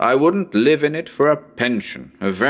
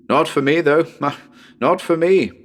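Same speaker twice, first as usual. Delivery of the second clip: laughing; 5 semitones higher than usual. Acted. Amused aside to listeners.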